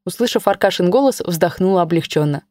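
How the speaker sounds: ordinary delivery, nothing marked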